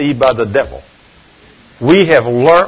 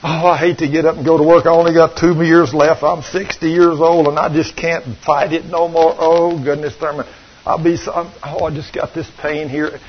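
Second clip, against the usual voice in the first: mock complaining. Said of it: "Christians talking like that".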